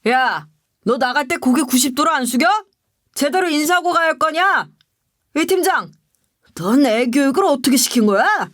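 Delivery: acted scolding without real volume; hammed-up boss yelling after an employee; mock angry yell. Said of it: "갑자기 소리를 지르는 거예요". (소리치는 척 호통)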